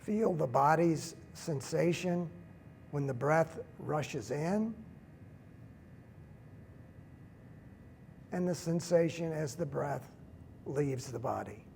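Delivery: slow, unhurried meditation leader with long pauses; guided meditation. Real, not acted. Teacher leading a standing group through breathing, calm guided meditation.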